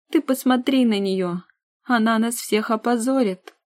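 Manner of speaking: outraged. Acted. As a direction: cry out in disgust. Sister's outraged cry.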